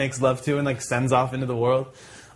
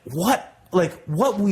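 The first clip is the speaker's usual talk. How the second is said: higher-pitched puzzled denial; mock innocence, voice lifting; acted playing dumb; 6 semitones higher, slower than usual. Accused thief denying he stole the weed, playing dumb.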